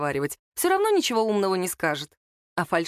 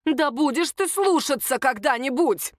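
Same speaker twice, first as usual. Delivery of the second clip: slow, scolding, raised a touch; 6 semitones higher than usual. Acted. Mother-in-law scolds her son, raising her voice a little. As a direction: scold him like a child. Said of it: "повысила голос".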